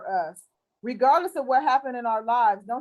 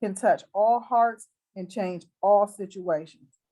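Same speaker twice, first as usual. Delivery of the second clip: closing prayer; 3 semitones lower than usual. Acted. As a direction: pray over her gently, like in church.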